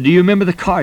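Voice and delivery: eager questioning. Retold or imitated. Preacher retelling how he checked the sailor's memory, eager. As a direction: lift the voice as the clue nears.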